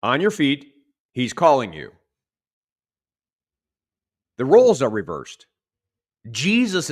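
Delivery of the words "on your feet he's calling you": calling out. Acted. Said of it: "So they call to the blind man".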